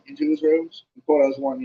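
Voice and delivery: usual speaking voice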